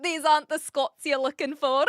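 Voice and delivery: playful mock Scottish accent; put-on Scots, on the edge of laughter. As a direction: deliver it as a joke Scot. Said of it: "my best attempt at a Scottish accent".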